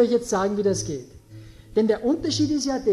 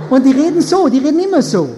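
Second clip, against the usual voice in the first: whiny voice; 5 semitones higher, 9 dB louder, faster than usual. Shown as a demonstration. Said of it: "die haben so eine weinerliche Stimme".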